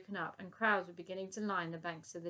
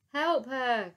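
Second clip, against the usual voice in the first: louder urgent call; 5 semitones higher, 9 dB louder than usual. Acted. Elsie calling to the soldiers, loud urgent call. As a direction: call for help. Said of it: "called out Elsie".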